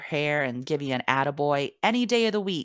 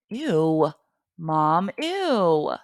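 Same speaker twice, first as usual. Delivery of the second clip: grossed-out ew; 5 dB louder, much slower than usual. Retold or imitated. Son to mom, recoiling at the earthworm claim, disgusted. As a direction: recoil like a kid hearing about worms.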